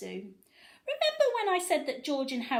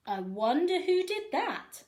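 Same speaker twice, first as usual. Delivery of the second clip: curious fan; 7 semitones higher, 3 dB louder than usual. A narrator's reading. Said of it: "asked another fan".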